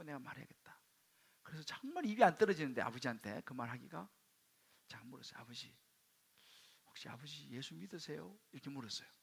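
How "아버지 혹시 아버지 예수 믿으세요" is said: soft, slow, careful asking; timid, hushed question; hesitant question. Retold or imitated. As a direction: ask your father softly, struggling to get it out. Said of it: "말이 잘 안 나왔지만 막 그냥 막 애를 써서".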